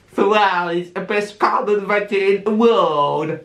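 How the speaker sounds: proud mock Italian accent. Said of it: "The Italian accent".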